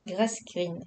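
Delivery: English words with a very French accent. Real, not acted. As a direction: say the English name as a French speaker would. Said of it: "Avec mon accent très français".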